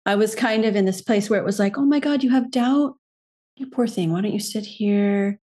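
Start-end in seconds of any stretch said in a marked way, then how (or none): 1.8-5.4 mock coddling. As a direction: coo over yourself like a poor thing, mock sympathy. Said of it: "I could see that being a way of coddling".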